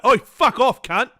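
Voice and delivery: a joking burst of temper; mock snap. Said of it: "Because I'd snap".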